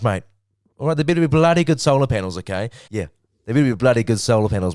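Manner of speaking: hammed-up tough-guy sales pitch; loud mock pitch for the solar sponsor; mock tough ad read.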